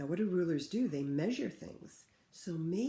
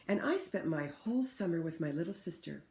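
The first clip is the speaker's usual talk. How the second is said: put-on clear, louder read-aloud for children; story reading; 4 dB louder than usual. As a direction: read the book to the class with feeling. Teacher reads picture book aloud.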